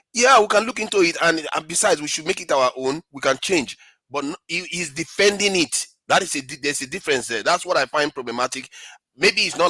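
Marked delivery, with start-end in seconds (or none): 0.1-3.8 voiced ideal answer. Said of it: "he should be saying".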